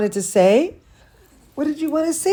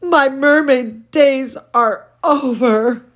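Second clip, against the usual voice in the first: sad; 4 semitones higher, 5 dB louder than usual. Acted. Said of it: "she's so depressed".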